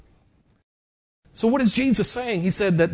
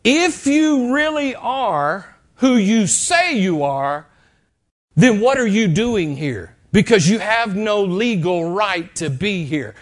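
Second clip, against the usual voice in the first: Satan's challenge; slower than usual. Retold or imitated. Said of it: "what Satan was really saying".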